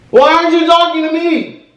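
sing-song begging to win her over. Acted. Pleading with silent girlfriend.

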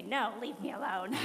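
laughing mock grump. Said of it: "And I would say".

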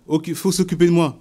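plus aigu et plus fort, plaintif exigeant; imitation de la mère égocentrique. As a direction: jouer la personne amère qui réclame qu'on s'occupe d'elle. Reprise jouée, plus aiguë et forte. (imitation aiguë et forte de la personne amère)

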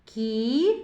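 long кі, then separate т; кіт read in parts. Shown as a demonstration. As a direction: sound out кіт piece by piece. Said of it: "Прочитаємо".

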